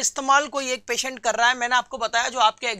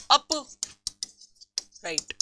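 अपराइट drawn out very slowly and softly, in two parts; slow dictation; 6 dB quieter, much slower than usual. Shown as a demonstration. Teacher spelling out a part's name for students, slow dictation. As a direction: break अपराइट in two with a long gap, softly.

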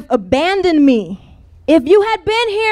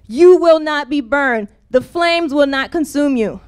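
scripture reading. Acted. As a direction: lay each line of the promise down gently.

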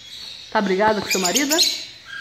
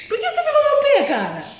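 very high squeaky mock complaint to the bird; high mock scolding; 4 dB louder than usual. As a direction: squeal it at the parrot like a hurt child. Scolding bird biting her foot.

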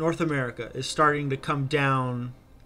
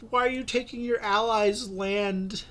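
higher, indignant Scotland voice; mock freaking out; 8 semitones higher than usual. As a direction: squeal it like a panicked ally. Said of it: "Scotland was just freaking out".

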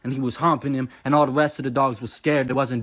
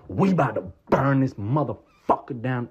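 emphatic mock rallying cry; riled-up imitation of the crowd; rowdy local's boast. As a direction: boast like a would-be rioter. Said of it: "people saying it in first person".

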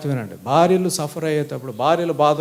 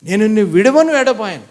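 said louder and higher for the crowd; loud emphatic repeat; 3 semitones higher, 6 dB louder than usual. Shown as a demonstration. Pastor leading the church to repeat God's promise, loud and emphatic. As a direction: declare it loudly so they repeat. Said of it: "మీరు చెప్పాలా?".

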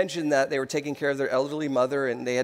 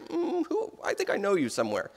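softer, hesitant, with a high "Mm"; imitated puzzled recognition; 4 semitones higher, 4 dB quieter than usual. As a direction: imitate someone trying to place a face. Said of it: "he kind of gives this, like".

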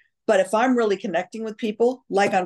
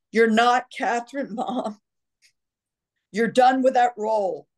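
imitated children; 5 semitones higher than usual. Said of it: "my ex-husband and my children going".

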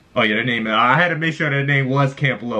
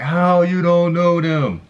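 lightly hammed-up dad, drawn out and raised; imitating dad; 6 semitones higher, much slower than usual. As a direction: stretch it out like a shocked father. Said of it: "my dad probably watching this like".

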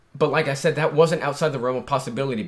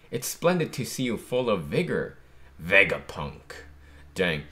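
reading manga aloud; 2 semitones lower than usual. Acted.

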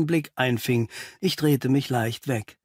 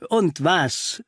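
mildly impatient prompt, pitched up; 4 semitones higher than usual. Acted. Holmes prods the halting doctor, impatient. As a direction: press him to go on. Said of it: "fragte Holmes ungeduldig".

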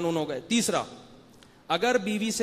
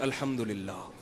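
low, softened imitation of a relieved caller; mock relief; 9 semitones lower, 7 dB quieter, slower than usual. Woman caller hearing the mufti's firm answer, mock relief. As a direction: lightly act out her quiet relief. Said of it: "مجھے اطمینان ہو گیا".

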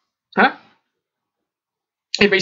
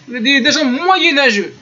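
reproche parodié, voix plus haute; reproche imité; 4 semitones higher than usual. Retold or imitated. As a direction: accuser en caricaturant ces gens-là. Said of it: "comme ça ils disent". (reproche moqueur imité)

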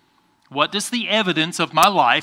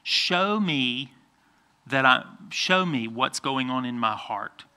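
quieter, lower prayerful voice; 3 semitones lower, 5 dB quieter than usual. Shown as a demonstration. Pastor models for children what to pray, soft prayer. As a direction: model a simple prayer, softly and low. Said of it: "good time to say".

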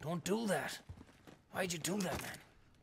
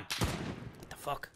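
hushed shocked whisper; 9 dB quieter, much slower than usual. Real, not acted. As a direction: breathe it out in disbelief. Quiet shocked reaction mid firefight.

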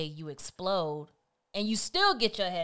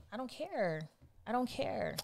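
dismissive attitude; 5 semitones higher, 6 dB quieter than usual. Acted. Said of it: "that attitude aspect of me".

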